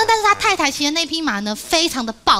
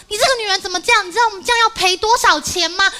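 raised, higher angry scolding of his wife; 7 semitones higher, faster than usual. Retold or imitated. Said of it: "老公好生气哦，老公气就骂说".

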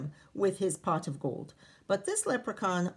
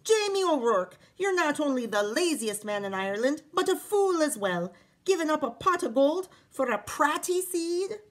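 much higher, louder scolding; wife berating husband in a fury; furious; 7 semitones higher, 5 dB louder than usual. Acted. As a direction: tear into her lazy husband. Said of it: "she was furious".

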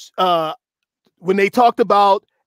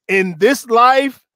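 drawn-out, emphatic reading; slow and intentional; 3 semitones higher, 4 dB louder, slower than usual. Shown as a demonstration. Reading her vow to listeners, slow and intentional. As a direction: read it slowly so they get the gist. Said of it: "read it slow and intentional".

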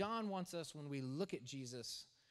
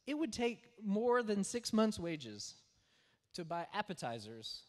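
exasperated Philip; 3 semitones higher, 5 dB louder than usual. Retold or imitated. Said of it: "and he says".

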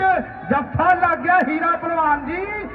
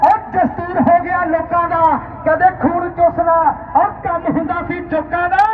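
loud chanted couplets; rhymed commentary; 3 dB louder than usual. Real, not acted. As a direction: call the verse out over the crowd.

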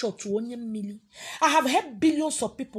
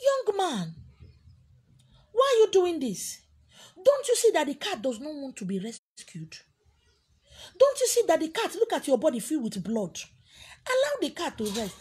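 irritated; 3 semitones higher than usual. Acted. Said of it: "becomes so irritated and angry and said".

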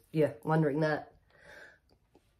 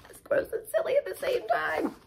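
giggling, higher through the words; laughing through line; 9 semitones higher, 6 dB quieter than usual. Real, not acted. Reader cracks up over the snot line, laughing. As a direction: let the giggle spill into the line.

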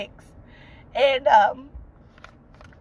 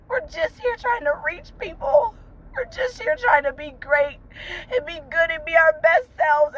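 crying; 4 semitones higher than usual. Real, not acted. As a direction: voice cracking with tears, pitch jumping high. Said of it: "I'm crying".

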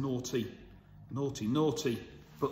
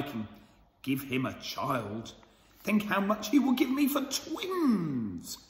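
gloating villain; 2 semitones lower than usual. Acted. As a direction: savour every word like a greedy villain.

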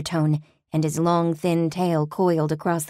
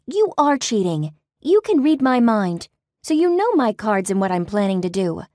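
heated accusation; 5 semitones higher, 4 dB louder than usual. Acted. Accusing the demon loudly.

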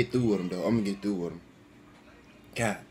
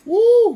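hot-mouth woo; 11 dB louder than usual. Real, not acted. Spicy noodle burn.

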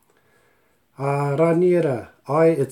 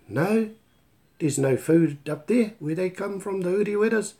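mock protest; 6 semitones higher than usual. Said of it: "I'll be going".

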